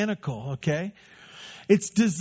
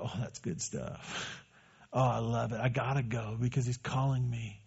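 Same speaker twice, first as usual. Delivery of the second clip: a lightly voiced sheep, savoring the shepherd's voice; a sheep hearing its shepherd call; contented sheep; 7 semitones lower, 8 dB quieter than usual.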